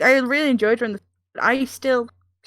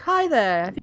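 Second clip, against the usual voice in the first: DIY show host; 4 semitones lower, 5 dB quieter than usual. Pretend. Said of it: "It's like a D I Y show".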